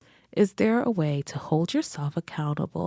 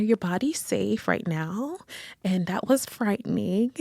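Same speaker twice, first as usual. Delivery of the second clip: put-on raised child voice, gently reassuring; child comforting mom; 5 semitones higher than usual. Little daughter reassures her mother in the car, light child voice. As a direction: soothe mom like a small kid. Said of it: "one of my little minis was like".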